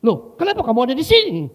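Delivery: loud, high, indignant demand; angry shout. Retold or imitated. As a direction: play the enraged man confronting a student. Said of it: "Dia gitu".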